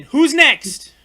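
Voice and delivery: shouted imitation of the trailer; loud trailer quote. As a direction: yell it like the trailer. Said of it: "That was Mortal Kombat ten".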